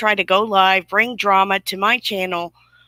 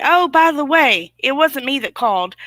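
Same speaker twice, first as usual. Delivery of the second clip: mocking quote; 5 semitones higher, 3 dB louder than usual. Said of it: "He calls her".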